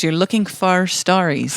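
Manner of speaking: attempted Irish accent; lightly put-on Irish voice. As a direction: try the line in an Irish accent. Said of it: "Maybe he's Irish".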